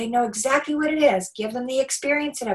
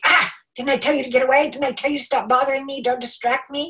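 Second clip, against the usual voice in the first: exasperated parent; 3 semitones higher, 5 dB louder, faster than usual. Retold or imitated. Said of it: "And you're like".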